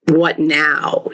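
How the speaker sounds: breathy whisper of stunned students; whispered what now. Retold or imitated. Students whispering after the teacher kicked the bin, whispered. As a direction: whisper it, at a loss. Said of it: "we just kind of sat there going".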